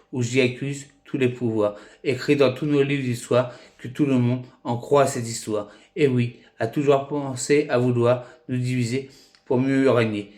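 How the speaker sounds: measured spoken-word poem, with pauses between phrases; poem recitation. Acted. Amateur poet addressing friends on love and division, measured poetry recitation.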